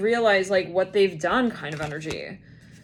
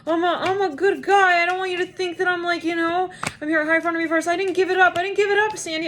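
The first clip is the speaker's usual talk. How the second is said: high, earnest pleading voice; pleading suitor; 9 semitones higher, 3 dB louder than usual. Retold or imitated. A man at the hospital begging Sandy, high pleading. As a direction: plead your case in a high voice. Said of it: "he's like".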